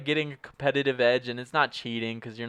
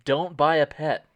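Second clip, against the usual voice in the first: mock newsreader; 2 semitones higher, 4 dB louder than usual. Mock breaking news bulletin.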